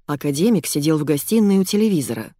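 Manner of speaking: ordinary delivery, nothing marked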